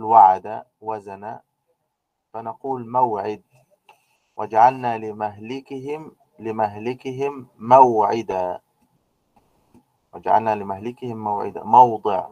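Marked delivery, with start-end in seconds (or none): 4.4-8.6 slow, drawn-out Quranic recitation; slow reverent recitation of the verse. Shown as a demonstration. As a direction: chant the verse slowly and evenly. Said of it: "reciting a Quranic verse".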